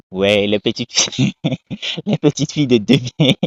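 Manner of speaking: real laugh breaking into the words; amused chuckling. Real, not acted. Commentator reacting to the girl being only twenty, amused chuckling. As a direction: chuckle mid-phrase and start over.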